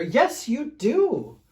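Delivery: hammed-up growl at him; mock growl. Fluffy Bear growls at Smelly Bear, hammed-up. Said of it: "growled Big Fluffy Bear".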